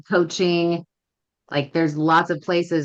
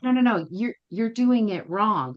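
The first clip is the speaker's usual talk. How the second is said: higher-pitched correction; 5 semitones higher than usual. Retold or imitated. Trainer correcting the student once more, higher-pitched. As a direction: lift the pitch and stretch the correction. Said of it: "she said it again. She was like".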